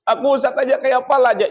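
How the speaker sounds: high, hurried imitation of a tearful man; mock crying. Husband pleads to the ustaz, mock tearful. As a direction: plead fast in a put-on weepy pitch. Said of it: "Nangis jua nang lalaki itu jua".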